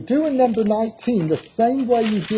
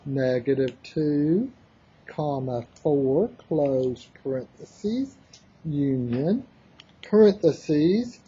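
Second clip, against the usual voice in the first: dictating; 5 semitones lower than usual. Real, not acted. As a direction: spell out the notation piece by piece. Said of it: "let me start typing".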